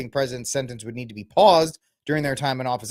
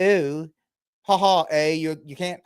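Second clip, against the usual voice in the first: mock Canadian accent; 2 semitones higher than usual. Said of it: "I don't know what accent that is".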